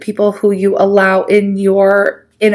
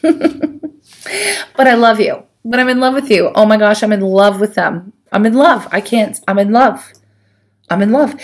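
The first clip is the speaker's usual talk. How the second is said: laughing, mock lovesick. Voicing ex, laughing.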